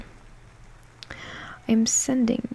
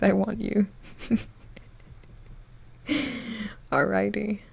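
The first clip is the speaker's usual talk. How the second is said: usual speaking voice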